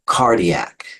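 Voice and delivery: "cardiac" slowly as CAR-di-ac; slow "cardiac" with the first syllable emphasized; stress on first syllable. Shown as a demonstration. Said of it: "capitalize the syllable that gets the emphasis".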